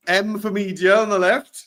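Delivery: giggling through a borrowed catchphrase; playful laughing echo of a colleague's phrase; laughing mimicry. Real, not acted. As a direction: tease him by echoing his words while laughing. Mocking co-host's catchphrase.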